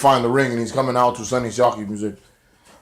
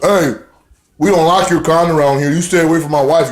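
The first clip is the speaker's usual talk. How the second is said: raised-pitch husband's warning; mock jealous warning; 4 semitones higher, 3 dB louder than usual. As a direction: warn him off, mildly hammed-up.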